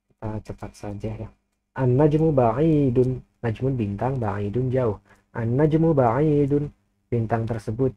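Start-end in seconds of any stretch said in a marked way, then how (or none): 1.8-3.2 slow, deliberate Arabic example read for students; careful teacher's slow demo of "An-najmu ba'idun"; slow model reading. Shown as a demonstration. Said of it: "alif lam syamsiyah, lamnya tidak dibaca". 5.4-6.7 slow, deliberate Arabic example read for students; careful teacher's slow demo of "An-najmu ba'idun"; slow model reading. Shown as a demonstration. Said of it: "alif lam syamsiyah, lamnya tidak dibaca".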